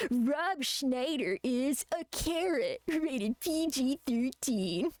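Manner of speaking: slow, lightly put-on South Park delivery; a hint of the South Park cartoon read, drawn out; South Park bit. Streamer quoting the South Park bit, slow mock voice. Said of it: "the South Park bit".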